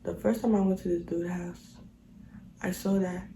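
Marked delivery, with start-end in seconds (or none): 0.0-1.8 whispered. Real, not acted. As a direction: whisper it under the breath. Whispered retelling.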